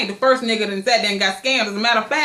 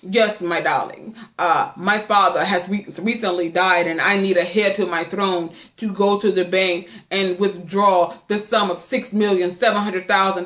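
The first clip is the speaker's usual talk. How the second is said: mock scam-email voice, pitched lower; lightly voiced smooth scammer, lower; 3 semitones lower than usual. Vlogger reading a scammer's email to viewers, mock lower scammer voice. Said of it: "Talking all like that".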